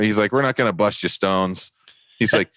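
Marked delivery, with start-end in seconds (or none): 0.3-1.7 higher-pitched South Boston cop; South Boston accent. Retold or imitated. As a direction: imitate an easygoing South Boston sergeant. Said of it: "South Boston, right down to his toes".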